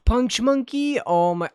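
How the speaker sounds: light up at the name; thrilled surprise; delighted gasp. Real, not acted. Recognizing beloved monkey.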